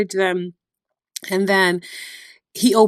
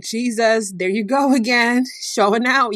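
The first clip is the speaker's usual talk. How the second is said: excited cheer; 4 semitones higher than usual. Retold or imitated. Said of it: "That makes you wanna shout".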